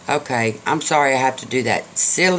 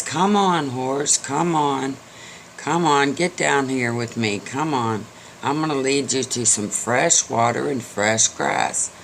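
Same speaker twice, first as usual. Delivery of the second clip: urging mule call. Acted. Mule calls horse to follow.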